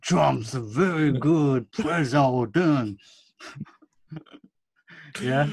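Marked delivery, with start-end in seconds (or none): 0.0-3.0 mock Southern accent. Joking Southern voice continues.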